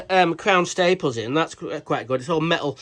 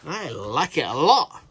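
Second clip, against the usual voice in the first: hammed-up Jim Carrey style. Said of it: "this isn't a Jim Carrey movie".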